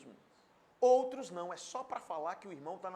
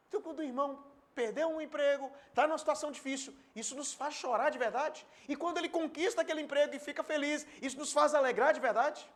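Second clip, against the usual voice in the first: fervent preaching; 8 semitones higher, 6 dB louder than usual. Acted. Preaching at raised pitch.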